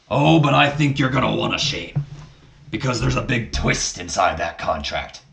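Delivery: lightly put-on boss voice, teasing a twist; a hint of a throaty impression, leaning into the opening word; Vince McMahon. Father baiting his son over a contract, mild impression. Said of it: "Vince McMahon, how do you speak?".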